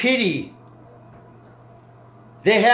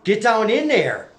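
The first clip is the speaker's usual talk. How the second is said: urgent shouting. Real, not acted. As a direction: drive him on, raise your voice. Leader urging man to feel it.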